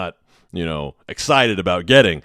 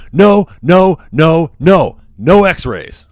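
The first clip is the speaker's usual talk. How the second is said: imitated frantic no, higher and louder; hammed-up panicked patient shouting no; retold hysterical, drawn-out no x-rays; hysterical refusal; 8 semitones higher, 9 dB louder, much slower than usual. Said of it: "the guy is hysterical".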